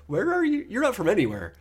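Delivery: high, lightly hammed Transatlantic accent; old-movie Transatlantic accent. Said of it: "Transatlantic accent".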